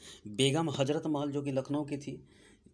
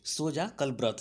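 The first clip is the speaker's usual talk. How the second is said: slow mnemonic; slower than usual. Shown as a demonstration. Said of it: "इतना तो आपको clear हो गया होगा".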